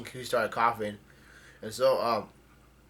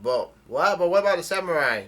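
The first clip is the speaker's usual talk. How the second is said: mild mock yell, rising higher and louder; retold yell; 4 semitones higher, 5 dB louder than usual. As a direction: half-shout it as an acted alarm call. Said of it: "somebody yells out".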